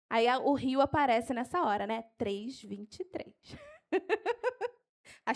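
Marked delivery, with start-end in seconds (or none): 2.2-3.3 slow, low, softer repeat; unhurried dictation; slow for note-taking. Shown as a demonstration. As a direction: dictate the numbers slowly and quietly. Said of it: "Eu vou falar devagar".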